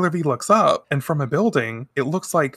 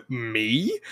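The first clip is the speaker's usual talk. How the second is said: ordinary talk, nothing marked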